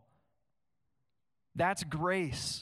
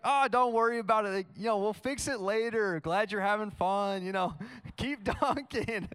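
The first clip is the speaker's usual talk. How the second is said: easygoing dad; 3 semitones higher than usual. Retold or imitated. Dad voiced shrugging off damage.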